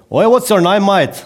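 put-on loud, high-pitched caricature of an English-speaking accent; hammed-up English accent. Joking to co-host about what counts as an accent, hammed-up English accent. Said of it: "který mluví stylem".

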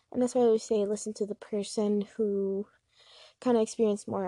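breathless after running upstairs; out of breath. Real, not acted. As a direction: talk while catching your breath. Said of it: "I'm sorry I'm out of breath".

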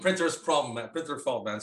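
laughing, lightly voiced devil; a hint of a sheepish devil; mock devil excuse. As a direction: shrug it off with a laugh. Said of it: "voicing the devil".

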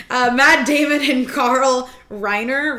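put-on French accent. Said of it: "talk in our French accents".

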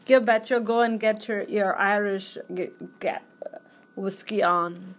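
mock Irish accent with a punched start; playfully fumbled Irish brogue. Urging a friend toward whiskey, mock Irish accent. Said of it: "now it's Irish".

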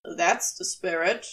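understated drawl; lazy drawl. Acted. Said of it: "Crowley drawled".

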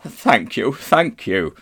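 put-on shaken old gentleman, feebly grateful; faint voice. A narrator's reading. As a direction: thank them as if about to faint. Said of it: "said Uncle Andrew in a faint voice".

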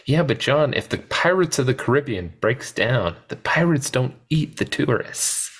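high, dry sarcastic retort; sardonic Malcolm. Retold or imitated. Podcaster quoting Malcolm to Hammond, high sardonic retort. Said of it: "Malcolm goes".

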